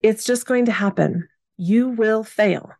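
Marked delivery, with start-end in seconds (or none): 1.6-2.7 slow, evenly weighted declaration; slow mantra. Real, not acted. Podcaster to listeners, slow mantra. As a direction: say it slowly, word by word.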